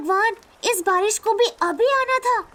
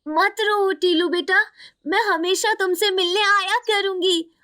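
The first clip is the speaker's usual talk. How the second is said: gentle mother spirit. Acted. Mother consoles crying son. (माँ की आत्मा, गहरी और ममता भरी आवाज़ में)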